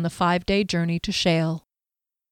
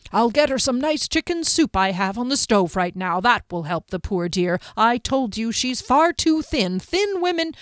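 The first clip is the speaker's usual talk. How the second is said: lightly voiced innkeeper, higher and lively; fussing innkeeper; 4 semitones higher than usual. Innkeeper explaining away a woman's faint, lightly fussing. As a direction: play a lightly drawn, chattering innkeeper.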